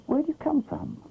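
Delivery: vintage cartoon voice. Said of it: "Quack was very puzzled".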